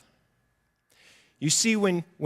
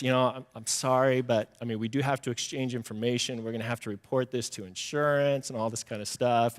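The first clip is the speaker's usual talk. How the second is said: low, soft, gently apologetic; considerate; 4 semitones lower, 6 dB quieter than usual. Retold or imitated. Guy to crying driver after a crash, considerate. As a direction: retell him breaking it kindly and quietly. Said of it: "trying to be really considerate and thoughtful".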